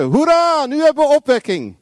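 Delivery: high, loud hurrah; high-pitched celebratory cry; mock cheering. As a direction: cheer with hammed-up jubilation. Acts out cheering for revival.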